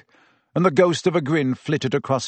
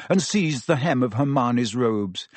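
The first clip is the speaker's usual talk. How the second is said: ordinary delivery, nothing marked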